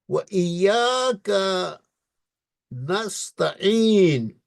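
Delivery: ایاک with a doubled ی, نستعین drawn out; slow, exact Quranic reading; careful recitation. Shown as a demonstration. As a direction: recite نعبد and ایاک slowly, each letter clear. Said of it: "مہربانی فرما کر".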